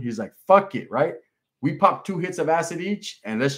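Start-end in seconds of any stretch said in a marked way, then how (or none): 0.5-0.9 reckless shout. Retold or imitated. Cellmate agreeing recklessly.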